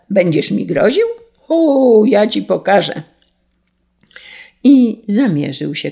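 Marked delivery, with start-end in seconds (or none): 0.1-3.0 indignant question flaring into a loud threat; angry exclamation. A narrator's reading. Carter threatens the sparrow, angry exclamation. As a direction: hit the O high and loud, then threaten. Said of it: "ze złością wykrzyknął woźnica".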